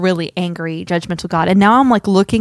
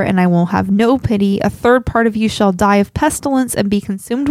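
steady, solemn Bible reading; scripture reading. Acted. Host reading God's judgment from Ezekiel to listeners, solemn. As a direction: give God's judgment its full weight, evenly. Long scripture passage read aloud.

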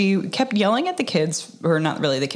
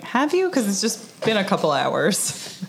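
sarcastic retort; 4 semitones higher than usual. Retold or imitated. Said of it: "It's like".

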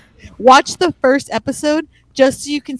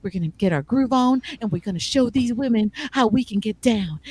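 lightly mocked rhythmic smooth-talker; a hint of rap swagger; imitating rapper-style talker; 3 semitones lower, 4 dB quieter than usual. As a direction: mimic a guy who talks like he's rapping. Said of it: "that's basically how he talks".

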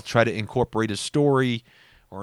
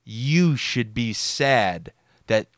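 pointed dig. Retold or imitated. Cousin hinting to absent relatives, pointed. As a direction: lean on each "you" to shift the loss. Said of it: "what he was trying to do was subtly tell us".

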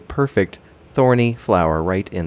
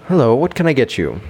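calm, welcoming; 6 semitones higher, 4 dB louder, faster than usual. Acted. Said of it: "he says in a calm, welcoming voice".

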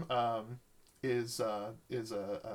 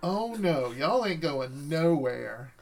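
Southern drawl; 2 semitones higher, 4 dB louder, slower than usual. Acted. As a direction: drawl it out like a sassy Southern vampire. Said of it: "Is that your real voice?".

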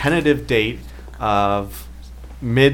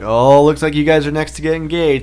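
teasing mock singsong, pitched up; ribbing, imitated; 4 semitones higher, 4 dB louder than usual. Wedding guests ribbing him after the toss, imitated teasing. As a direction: imitate friends needling a couple, higher voice. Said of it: "ribbing me".

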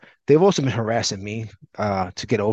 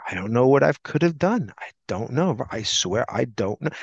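monotone rehearsed voice. Retold or imitated. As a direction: recite it like a memorized excuse. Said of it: "In that monotone voice, like it was rehearsed".

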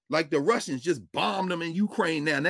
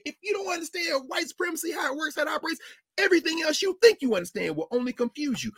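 emphatic shouted quote; 9 semitones higher than usual. Retold or imitated. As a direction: hammer the line home with a shout. Same quote repeated, shouted.

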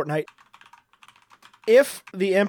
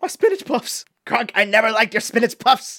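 Kuzco voice; 4 semitones higher than usual. Retold or imitated. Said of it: "That's what Cusco orders".

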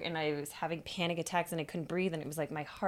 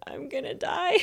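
mock panic; 7 semitones higher, 4 dB louder than usual. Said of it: "Which I was very serious".

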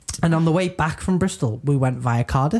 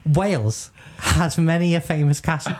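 sing-song quizmaster. Acted. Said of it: "saying this like you're a dog".

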